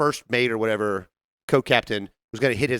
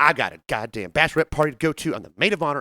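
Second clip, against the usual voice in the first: mock complaining, griping put-on voice, higher pitch; 3 semitones higher than usual. Retelling a flight, the speaker quotes a passenger: mock bitching complaint. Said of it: "She's bitching".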